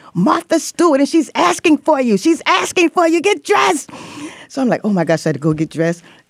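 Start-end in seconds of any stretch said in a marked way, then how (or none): 0.2-3.9 put-on Puerto Rican accent, much higher and slower. Retelling her mom calling her to get dressed: imitating Diana Sanchez's Puerto Rican accent. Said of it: "sticks accent, Puerto Rican accent".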